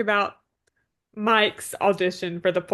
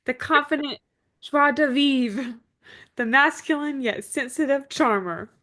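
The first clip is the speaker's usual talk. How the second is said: hamming up Rosemary's flattery a little; imitating Rosemary; 5 semitones higher, 4 dB louder than usual. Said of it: "she's like".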